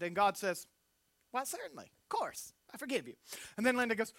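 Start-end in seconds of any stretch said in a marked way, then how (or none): 1.3-3.1 gentle God. Acted. God gently forgiving Linda.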